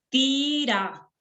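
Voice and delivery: slow, measured syllable breaks. Shown as a demonstration. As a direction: sound out each piece for counting. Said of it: "vamos a contar".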